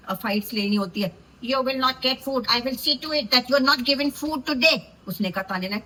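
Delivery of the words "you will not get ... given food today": mock stern threat. Mimicking Baseer's threat.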